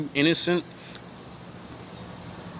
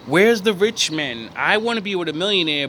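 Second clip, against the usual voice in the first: mock gold-digger; 4 semitones higher than usual. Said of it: "all these women say".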